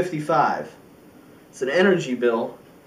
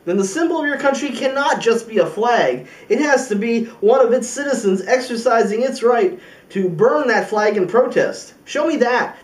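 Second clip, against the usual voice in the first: voicing America's defiant challenge; 2 semitones higher than usual. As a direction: throw it down as a dare. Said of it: "It's gonna say".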